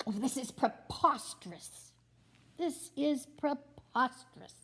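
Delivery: a touch of huffy outrage; lightly voiced indignant Arthur; mock indignation. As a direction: complain like a fussy gentleman.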